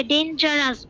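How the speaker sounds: ডেঞ্জারাস split as "den-jaras"; ডেঞ্জারাস, piece by piece; broken into parts. Shown as a demonstration. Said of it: "ভেঙে ভেঙে বলতে হয়".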